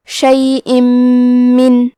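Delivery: شیئن من with the tanween merged into the م, nasal and doubled; idgham with ghunna. Shown as a demonstration. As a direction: blend شیئن into من with a held nasal hum. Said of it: "تنوین کو میم میں ملا کے غنہ اور تشدید".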